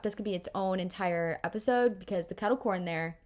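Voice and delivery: talking through a mouthful of spit; mouth watering. Real, not acted. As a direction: speak with saliva pooling in the mouth. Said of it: "I have so much spit in my mouth".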